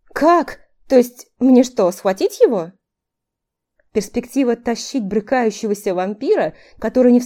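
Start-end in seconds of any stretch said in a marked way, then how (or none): 0.0-2.7 startled high question; surprised. A narrator's reading. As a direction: caught off guard, disbelieving. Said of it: "Не на шутку удивившись".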